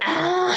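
high mock scream "ah"; playful, put-on "ah" scream; imitated scream. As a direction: demonstrate a scream for a friend. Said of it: "Anto no puede hacer".

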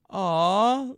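high, drawn-out coo; cooing grandma. Retold or imitated. Grandma watching the silly video, imitated high coo. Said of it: "and she goes".

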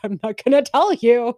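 high, loud hoarding-goblin taunt; Smeagol-like creature. Pretend. Goblin taunting viewers over secrets of life. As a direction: hiss it like a creature guarding treasure. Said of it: "Smeagol-like creature".

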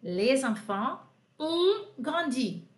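slow, careful French answer; slow model sentence. Shown as a demonstration. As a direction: give the answer slowly for the class. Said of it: "como é que é?". (frase em francês, devagar)

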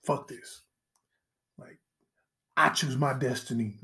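low, soft, smug mutter under the breath; hushed, self-important quitter; mock dropout. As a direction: play the dropout muttering his big choice. Mock student quitting, quoted.

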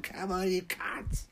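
crazed taunt. Acted. Machete rampage in kebab shop.

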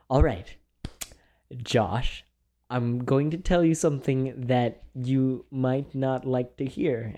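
slow, halting mock-grave announcement; dramatic hard-news delivery. Friend breaking hard information to Josh, dramatically measured. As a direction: imitate someone solemnly preparing a friend for bad news. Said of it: "incredibly dramatic".

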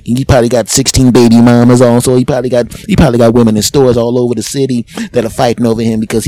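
loud, gossiping bystander voice; judgy onlookers. Retold or imitated. Store customers gossiping about him, loud and judgy. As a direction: sneer like nosy customers. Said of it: "people are looking at me like".

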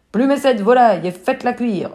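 ordre lancé un peu plus fort et plus haut; ordre du capitaine. Acted. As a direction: commander sans réplique. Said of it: "ordonne le capitaine". (capitaine qui ordonne à l'équipage, ferme et plus fort)

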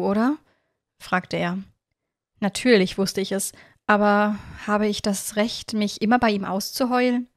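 expressive, measured story reading; story narration. A narrator's reading. Narrator reads a dream story to listeners, expressive narration. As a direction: read it as a heartfelt first-person tale.

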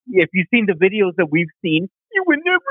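high teary imitation; imitating a tearful plea, pitched high; mock crying. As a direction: break into a fake sob on never. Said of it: "and he started crying".

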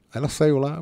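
ordinary talk, nothing marked

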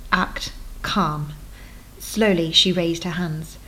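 measured storytelling read; lightly dramatic novel reading; story narration. A narrator's reading. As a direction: read the chapter to draw listeners in. Author reads her novel aloud.

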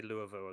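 "Louisville" with the vowels swallowed; local Louisville. Retold or imitated. Co-host imitating how Americans say the city, slurred pronunciation. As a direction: say "Louisville" as LOO-uh-vul. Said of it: "The way you guys say".

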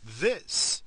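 slow, building announcer voice rising to a high shout; radio host intro. Shown as a demonstration. Podcaster opening his show in a booming announcer voice. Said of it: "Is that a better opening?".

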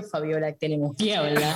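a daughter mimics her father starting a sermon; stern dad. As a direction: play the dad about to lecture. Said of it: "Ya yo me imagino sermón".

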